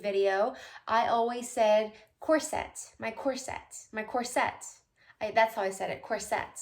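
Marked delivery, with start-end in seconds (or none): 2.2-4.7 each "corset" said cor-SET; "corset" stressed on SET; stress on second syllable. Shown as a demonstration. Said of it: "emphasis or the accent on the second syllable". 6.0-6.6 each "corset" said cor-SET; "corset" stressed on SET; stress on second syllable. Shown as a demonstration. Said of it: "emphasis or the accent on the second syllable".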